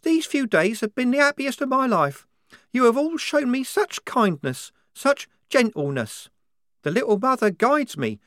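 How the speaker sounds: put-on a zealous young recruit, fervent and sure; devout young soldier. A narrator's reading. Wazza voiced, devout conviction.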